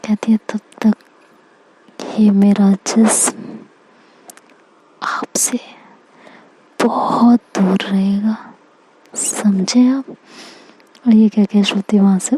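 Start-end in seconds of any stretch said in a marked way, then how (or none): 0.5-10.0 slow, hushed teasing whisper; seductive whisper. Acted. Wife teasing Aksh, withholding herself, in a slow seductive whisper.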